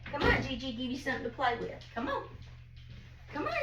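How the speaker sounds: distant, soft, quick urging; off-mic coaxing. Real, not acted. Gigi offering little girl something to play with, distant coaxing. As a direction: coax a little one along from afar.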